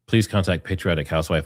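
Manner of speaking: normal talking voice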